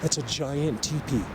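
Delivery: "giant" drawn out and leaned on, slow; slow, wide-eyed stress on "giant"; emphasis on giant. Real, not acted. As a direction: stretch the word "giant" to make it huge. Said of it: "I have to emphasize it".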